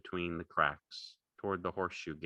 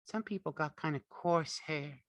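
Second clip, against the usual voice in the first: complacent; 10 semitones higher than usual. A narrator's reading. Curly's wife talks about hair, complacent. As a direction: show off complacently, pitched high. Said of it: "she said complacently".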